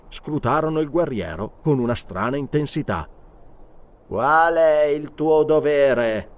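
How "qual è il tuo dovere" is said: slow hypnotic question. Acted. Mesmerist questions guard slowly.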